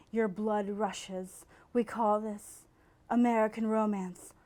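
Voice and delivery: slow, hushed romance trailer voice; dramatic ad read. Shown as a demonstration. Host reading the romance novel ad aloud, slow trailer voice. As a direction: read it like a cheesy movie trailer, slowly. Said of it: "the text of the ad".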